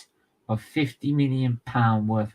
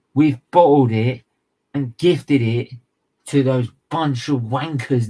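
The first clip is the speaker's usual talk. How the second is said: louder angry blurt; angry outburst; 4 dB louder than usual. Real, not acted. Fan raging at Arsenal to viewers, loud outburst. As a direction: burst out in anger. Furious fan rant on top four.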